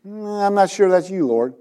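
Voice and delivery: hemming, not quite convinced; reluctant doubt. Retold or imitated. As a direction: imitate someone politely doubting the Lord. Voices believers doubting God's voice.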